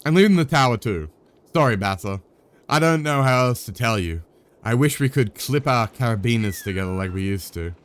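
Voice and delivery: lightly voiced friend breaking the news gently; apologetic departing friend. Streamer voicing a friend leaving the tower, lightly apologetic.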